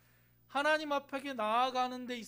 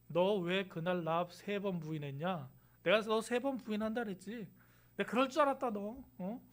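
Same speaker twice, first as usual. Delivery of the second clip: mock reproach; 2 semitones lower than usual. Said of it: "에이, 그러셨어요?".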